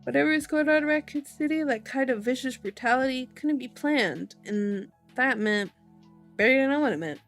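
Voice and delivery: lively audiobook read with emphatic key words; animated story narration. A narrator's reading. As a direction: read the chapter's closing lines with drama. Reads novel aloud to audience.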